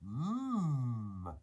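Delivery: long savouring mmm; appreciative mmm. Real, not acted. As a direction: draw out a tasty mmm. Savouring mention of pasta dinner.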